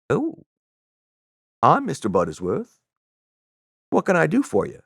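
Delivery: hint of a Southern good old boy; Southern accent. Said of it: "I don't have a very good Southern accent".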